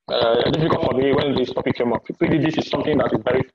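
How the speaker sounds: crackly breaking-up connection. Real, not acted. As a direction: voice cutting out on a bad line. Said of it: "You're breaking up".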